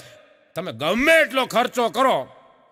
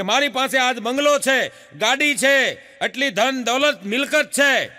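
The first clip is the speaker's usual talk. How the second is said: filmy dialogue; 5 semitones higher, 4 dB louder than usual. Retold or imitated. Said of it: "film અંદાજમાં".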